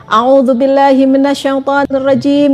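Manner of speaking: slow, earnest prayer recited aloud; contoh doa. Acted. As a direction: pray it slowly, like a humble plea. Berdoa saat dihina. (doa pelan dan khusyuk)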